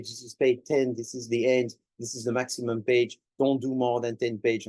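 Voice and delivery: lightly robotic, even monotone. Shown as a demonstration. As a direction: recite it like a machine. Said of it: "like a robot".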